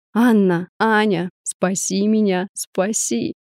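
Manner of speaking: usual speaking voice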